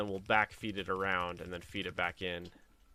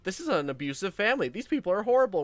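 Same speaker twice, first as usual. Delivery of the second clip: imagined appalled strangers; 9 semitones higher, 6 dB louder than usual. Retold or imitated. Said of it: "the people behind us are probably like".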